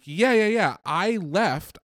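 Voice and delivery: high, breezy student voice. Retold or imitated. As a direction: toss it off lightly.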